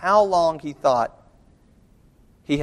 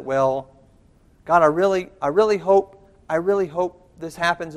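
mock timid prayer; 4 semitones higher than usual. Mocking timid hedged prayer.

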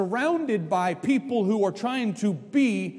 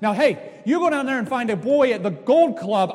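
ordinary talk

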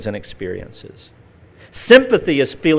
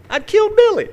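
mock anguish; 5 dB louder than usual. Mock dismay at killing bird.

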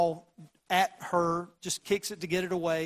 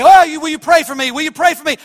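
mocking whiny churchgoer; 9 semitones higher, 17 dB louder, faster than usual. Mocks churchgoers asking for prayer.

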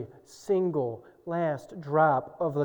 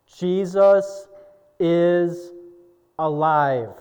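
triumphant proclamation; 6 dB louder, much slower than usual. Real, not acted. Triumphant declaration.

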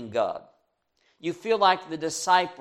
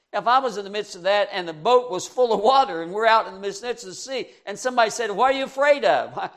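excited telling; 5 semitones higher, 5 dB louder, faster than usual. Pretend. Preacher imagines himself in boat.

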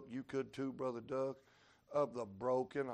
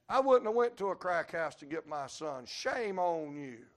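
mocking rebuke; 3 semitones higher, 6 dB louder than usual. Preacher mocks and rebukes hearers.

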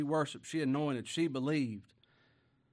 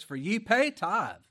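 loud, higher, slow scripture cry; fervent preaching; 6 semitones higher, 10 dB louder, slower than usual. Acted. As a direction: thunder out the woe. Preaching scripture at full force.

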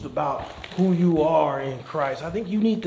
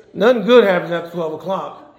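nothing GOOD happens after twelve o'clock, said louder; louder repeat; 7 dB louder than usual. Shown as a demonstration. Preacher repeating the warning to parents, louder. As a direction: drive the repeat home. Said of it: "but nothing good happens".

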